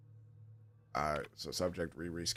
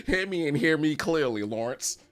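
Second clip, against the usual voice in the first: menacing; 7 semitones higher, 6 dB louder than usual. Acted. Voicing Ollie's message.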